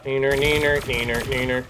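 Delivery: sing-song schoolyard taunt. Pretend. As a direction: tease him like a kid.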